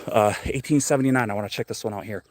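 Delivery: out of breath from walking; puffing between words. Real, not acted. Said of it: "why I'm so out of breath".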